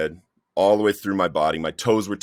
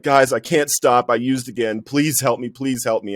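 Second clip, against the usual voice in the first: raised, urgent pleading, no real sobs; higher-pitched imitation of desperate begging; retold tearful plea; 4 semitones higher, 3 dB louder than usual. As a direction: beg the group for help, reenacting a breakdown. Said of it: "And I'm just crying in a mess".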